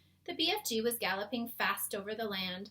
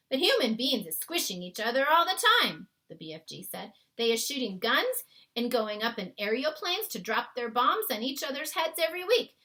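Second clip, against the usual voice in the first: big friendly giant, louder and earnest; a kindly giant explaining his world to a girl; BFG voice; 2 semitones higher, 8 dB louder than usual. A narrator's reading. BFG's lines in story.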